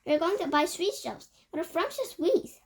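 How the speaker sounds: high, excited cry; delighted cry. A narrator's reading. Witches delighted about buying sweet shops. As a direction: savor it like a treat.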